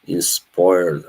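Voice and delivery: a light Irish lilt on "Inspired"; Irish accent. Retold or imitated. Streamer repeating a chat word, in a mild Irish accent. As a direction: say "Inspired" like an Irish guy, rolled r. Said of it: "I said it like an Irish guy".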